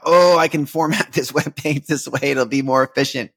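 bright, lightly laughing nerd joy over code; giddy work excitement. Retold or imitated. Imitating his giddy self over a coding idea, lightly laughing excitement. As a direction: play up the thrill of a better web page. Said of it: "I'll get excited with a new work project".

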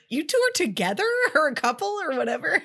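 high, loud, laughing question; laughing disbelief. Retold or imitated. Cam asks the couple if they are together, laughing. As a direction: giggle through the question. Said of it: "'cause Cam goes".

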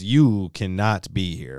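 put-on Swedish accent. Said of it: "In his best Swedish accent".

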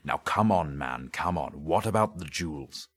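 brisk, forceful urging; insistent, loud on the first words; impatient inspector. Acted. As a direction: press him to get to the point. Inspector urges suspect on.

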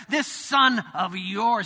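sneering son speaking of his brother; contemptuous. Retold or imitated. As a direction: drag the words out with scorn. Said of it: "Did you hear that?".

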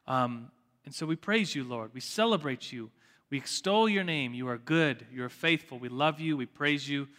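a pastor praying over his class; prayer. Real, not acted. Leads the opening prayer.

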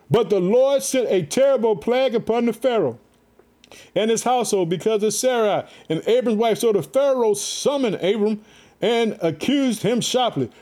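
measured, declaiming Bible reading; scripture reading. A narrator's reading. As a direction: read the passage out to a congregation. Reads scripture aloud to listeners.

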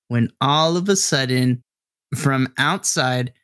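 slow, building suspense; game master setting an ominous scene, slowly; suspenseful narration. Acted. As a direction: draw out the tension slowly.

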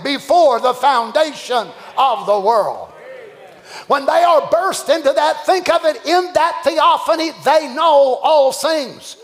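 rising, fervent preacher's cry; preaching at full force. Acted. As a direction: build the sermon to a shout. Preaching builds to shout.

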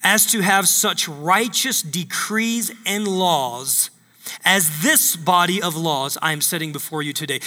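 slow, deliberate reading of scripture. Shown as a demonstration. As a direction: read each word slowly and weightily. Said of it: "I'm gonna read this one more time".

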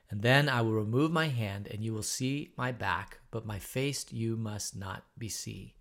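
measured, even Bible reading to the class; scripture reading. Acted. Teacher reading Exodus aloud to the class, steady reading voice. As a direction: read the verses steadily, like scripture.

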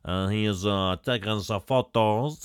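lightly imitated French accent. Podcaster mimicking the French photographer, French accent. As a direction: put on a mock French accent. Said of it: "he's being French".

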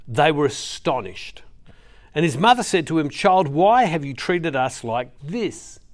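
measured, earnest Bible reading to the congregation; scripture reading. Acted. Preacher reading Luke to the church, earnest reading voice. Reads Luke passage aloud.

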